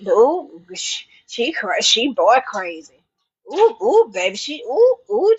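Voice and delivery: gossip impression. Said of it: "they be having".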